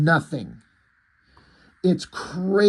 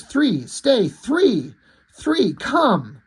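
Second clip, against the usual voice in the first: higher calling voice, dog summoning his friend; 6 semitones higher, much slower than usual. Acted. Dog calling for the missing rabbit, raised calling voice. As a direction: call the name out high and urgent.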